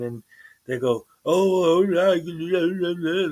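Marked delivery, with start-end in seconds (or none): 1.2-3.3 fake Indian accent. Host imitates auditors dodging questions, fake Indian accent. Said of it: "they got a fake Indian accent".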